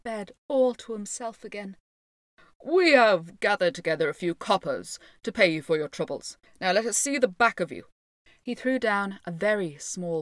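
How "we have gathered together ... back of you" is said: loud mayoral brush-off; pompous Lord Mayor, dismissive. Acted. Lord Mayor tosses the piper a few coppers, pompous dismissal. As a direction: send him packing from the wall.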